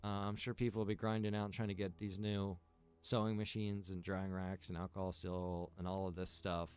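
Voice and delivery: ordinary delivery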